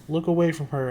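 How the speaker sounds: shouting. Acted. Annabeth warning the boys about Medusa, urgent shout. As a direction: yell it to save them. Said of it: "Annabeth shouted".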